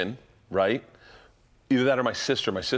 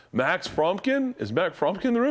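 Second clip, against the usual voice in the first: imitating Santa; 7 semitones higher than usual. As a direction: stretch the boy's name out high. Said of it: "Bill went like this".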